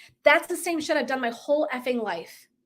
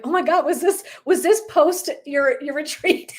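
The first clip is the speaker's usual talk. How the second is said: imitating an amused, higher-pitched questioner; laughing disbelief; 4 semitones higher than usual. Healer teasing her about the cringy video, laughing disbelief. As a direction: ask it through laughter, stretching the words.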